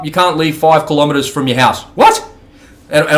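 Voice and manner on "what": incredulous what. Real, not acted. Outraged at lockdown rule.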